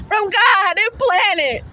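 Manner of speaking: tearful, breaking voice; crying. Real, not acted. Mother crying to the agency about her baby girl, tearful. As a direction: speak through real tears.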